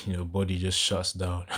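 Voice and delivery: amused chuckle breaking into the words; real laughing. Real, not acted. Preacher recalls brothers joking about fear, laughing as he talks. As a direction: laugh as you explain it. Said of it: "I'm laughing 'cause".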